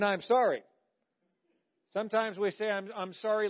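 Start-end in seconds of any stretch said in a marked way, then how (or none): 0.0-0.6 put-on grudging kid sorry. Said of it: "That wasn't an". 2.7-3.5 lightly voiced halting kid sorry; like an eight-year-old. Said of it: "like an eight-year-old".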